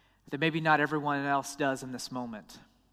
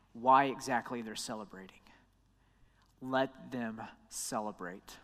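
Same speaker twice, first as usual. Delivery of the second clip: soft, low, near-whispered words, slowing at the end; hushed Jesus quote; 6 semitones lower, 7 dB quieter than usual. Acted. Preacher voicing Jesus to the crowd, hushed. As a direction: let it fall to a hush as Jesus.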